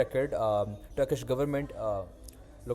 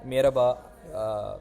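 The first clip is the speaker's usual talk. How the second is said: put-on Turkish accent; slower than usual. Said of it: "in the most Turkish accent ever".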